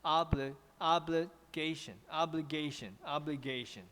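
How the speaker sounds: "obligation" with OBLI level and GAY falling; flat, then drop. Shown as a demonstration. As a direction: model "obligation" evenly, dropping on "gation". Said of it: "应该是前面是".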